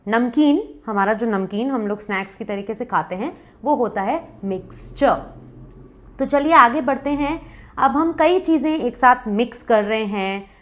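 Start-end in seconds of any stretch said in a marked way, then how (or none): 4.4-5.4 मिक्सचर as "miks-chuh"; correct pronunciation. Shown as a demonstration. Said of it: "correct word है". (मिक्सचर को "मिक्स-चअ" बोलें)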